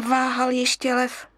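ordinary delivery, nothing marked

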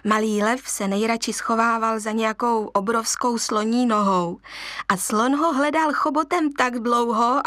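ordinary delivery, nothing marked

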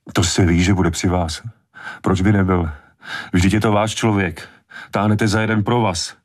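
rising, sneering accusation; bitter anger. A narrator's reading. Mother accusing Brody and Meadows of collusion. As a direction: build the rage line by line. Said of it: "záchvatu vzteku".

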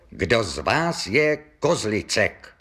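firm, slow official question; strong voice. Acted. Policeman questioning the whole pub, mildly strong voice. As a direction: ask the room in a mildly forceful voice. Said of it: "zeptal se silným hlasem".

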